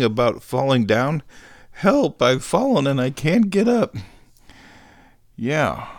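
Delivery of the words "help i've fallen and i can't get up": high, loud mock cry for help; Life Alert plea. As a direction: ham up a fallen old lady. Famous ad line, mock cry.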